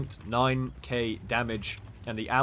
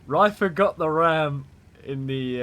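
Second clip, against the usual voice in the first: raised, loud commentator voice; excited; 4 semitones higher, 6 dB louder than usual. Real, not acted. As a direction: still buzzing from a huge play. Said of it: "I'm getting so excited".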